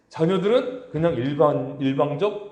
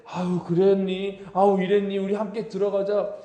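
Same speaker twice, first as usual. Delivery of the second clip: affectionate coaxing. Retold or imitated. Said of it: "이렇게 정말 살갑게 챙기는".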